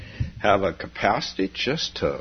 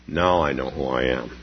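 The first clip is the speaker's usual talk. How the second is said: wondering exclamation; 7 semitones lower than usual. Acted.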